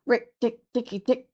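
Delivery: war cry. Acted. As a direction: rattle it off like a small fierce animal. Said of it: "his long war cry".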